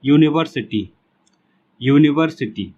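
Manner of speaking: यूनिवर्सिटी sounded out clearly, starting on "yu"; teacher's model reading of यूनिवर्सिटी; reading aloud demo. Shown as a demonstration. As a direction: read out यूनिवर्सिटी twice as a model, with a pause between. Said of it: "तो जब इसको पढ़िए".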